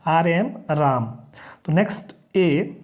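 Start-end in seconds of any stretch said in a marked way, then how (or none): 0.0-1.0 राम with the ए sounding as आ; teacher sounding out राम; spelling then saying ram. Shown as a demonstration. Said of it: "ए जो है आ की तरह उच्चारण करता है".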